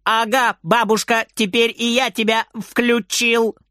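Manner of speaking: put-on high, gleeful child's triumph; jubilant. A narrator's reading. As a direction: crow with delight. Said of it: "Тот ликует". (ликующий)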